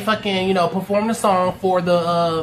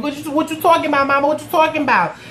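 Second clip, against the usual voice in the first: higher-pitched, repeated incredulous questioning; baffled protest; 6 semitones higher, faster than usual. Retold or imitated. Son questioning his raving mama, baffled. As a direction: plead in rising disbelief.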